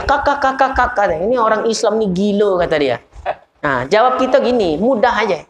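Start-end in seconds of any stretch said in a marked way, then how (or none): 0.1-1.1 mocking cackle. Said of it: "Cekakakkan dia".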